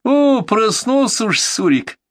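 smiling. Acted. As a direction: gently tease the waking patient. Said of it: "улыбнулся Серёга".

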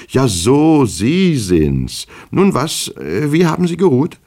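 high, exclaiming false surprise; feigned recognition. A narrator's reading. Younger Goldjetkin suddenly acknowledges his guest, feigned surprise. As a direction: exclaim high, then ask with put-on politeness. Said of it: "als hätte er erst jetzt Herrn Goldjetkin den Älteren erkannt".

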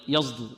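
يصدر said as yazduru; wrong Z colouring. Shown as a demonstration. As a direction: let a buzzing Z replace the S in يصدر. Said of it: "وهذا خطأ".

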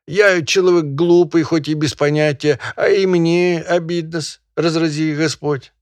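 high, loud, quavering peasant self-defense; high loud peasant plea. Acted. Peasant finally speaking up loudly to the barin. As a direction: gather courage and speak up to the master. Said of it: "громко, как бы собравшись силами".

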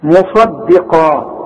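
مصدقا drawn out very slowly, with a heavy sad and qaf; careful recitation. Shown as a demonstration. Teacher models the word slowly for his student. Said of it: "خد بالك".

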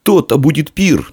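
put-on high, gleeful boy's exclamation; joyful anticipation; rejoicing. A narrator's reading. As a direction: crow with delight, pitched high. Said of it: "не переставал радоваться и Дарий".

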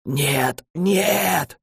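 rasped out, pitch rising on the second нет; a cornered man wheezing denial at the ceiling; sick boy croaking at the ceiling in despair; hoarse wheeze. Acted. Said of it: "хрипел Филипп в потолок".

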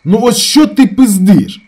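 high, very loud, slow; furious shout. A narrator's reading. Ravzan turns on his brother, furious. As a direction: rage at him. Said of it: "повернувся до нього Равзан".

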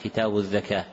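الزكاة said "adh-dhakah"; dhal for zay. Shown as a demonstration. Teacher repeating the page-top misprint, الزكاة with dhal. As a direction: use "dh" in place of z in الزكاة. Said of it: "كتب في أعلى الصفحة".

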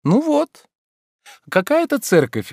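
put-on high, lively young woman voice; Ольга, звонкая девушка. A narrator's reading. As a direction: play Olga pleading playfully. Olga's voice. (звонкий голос юной Ольги)

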